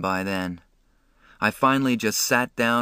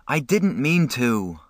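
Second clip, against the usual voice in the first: pleading; 4 semitones higher, slower than usual. Acted. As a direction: plead to be forgiven. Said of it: "I pleaded with Derry".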